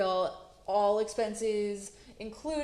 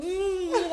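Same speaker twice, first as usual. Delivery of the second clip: muffled hum; 10 semitones higher, 6 dB louder than usual. Retold or imitated. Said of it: "mumbling under his hand".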